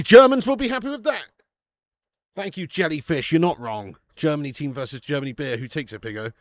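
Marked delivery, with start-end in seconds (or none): 0.0-1.2 louder, higher German-accent impression; mock German accent. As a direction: put on a comic German accent. Mock German echo of previous line.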